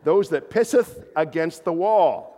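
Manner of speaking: hammed-up archaic reading; mock-solemn King James. Shown as a demonstration. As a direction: savor the old wording, pisseth drawn out. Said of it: "I'm just quoting the King James Version".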